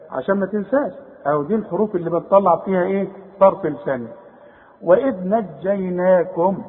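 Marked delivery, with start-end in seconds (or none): 4.8-6.6 slow, careful tajweed reading; slow recitation. Shown as a demonstration. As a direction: recite slowly with every letter light. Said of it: "نجيناكم كلها مرققة". (تلاوة بطيئة مرققة)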